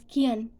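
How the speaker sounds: "kian" with an extra ah before the n; American "kian", vowel broken in two; American can. Shown as a demonstration. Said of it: "so American pronounce, uh, uh, it is".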